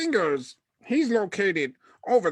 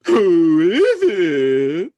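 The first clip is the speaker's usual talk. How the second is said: muffled voice; 7 dB louder, slower than usual. Acted. Voice behind door.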